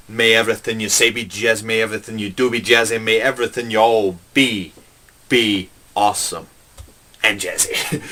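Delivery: quick preacher's blessing; mock benediction. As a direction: bless the flock.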